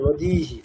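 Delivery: "নদীহি" with the last "হি" kept short; short final hi. Shown as a demonstration. Teacher confirming the sound is short, "নদীহি" with brief হি. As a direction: finish "নদীহি" on a quick "হি". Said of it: "উচ্চারণটা হ্রস্ব".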